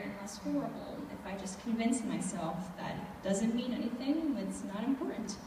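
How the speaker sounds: softly talking herself into giving in; subdued, low-energy and resigned; quietly convince yourself it doesn't matter; resigned self-soothing. Acted. Resigned self-persuasion during the assault.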